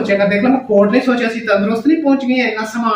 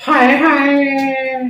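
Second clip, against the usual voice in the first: drawn-out wail; much slower than usual. Acted. Drawn-out protest to husband.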